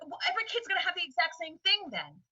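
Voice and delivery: a hint of a doubter pushing back; skeptical voice. Teacher voicing a critic's doubt, mildly mocking.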